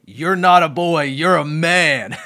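amused at how corny it sounds; chuckling through the dad's line; laughing. Retold or imitated. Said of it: "it sort of sounds funny to even say it".

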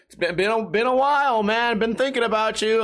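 put-on high, gushing old-pal act; butter up a newly rich friend; fake friendliness. Fake friends phoning a lottery winner.

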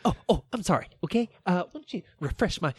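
a lightly voiced touchy Richie; mock offended Richie. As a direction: play Richie picking a fight. Acting Richie in a quarrel.

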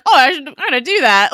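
put-on a loud, excited kid with a bright idea; eager kid. Voicing kids copying TV.

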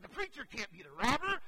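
a small son who won't accept it; indignant child. Retold or imitated. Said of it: "Trent's like".

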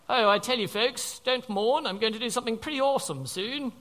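a hint of a breezy, cheery preacher, quick at the end; mock breezy Jesus. Preacher mocking a tearless Jesus, lightly voiced breezy cheer. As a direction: brush off grief like a glib salesman. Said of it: "I don't know who that was".

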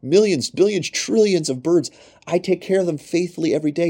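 God speaking tenderly. Acted. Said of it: "He says in Matthew six".

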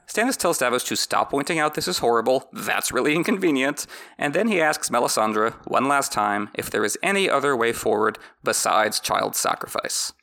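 ordinary talk, nothing marked

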